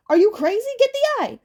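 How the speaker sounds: very high, loud crone scold; shrieking witch; hag yell. Acted. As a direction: shout at the boy to get it. Hag yells at Percy.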